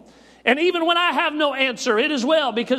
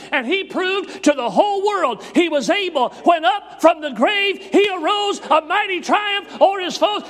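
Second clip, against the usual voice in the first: full-force preaching; 3 semitones higher than usual. Acted. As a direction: preach it to the rafters, building.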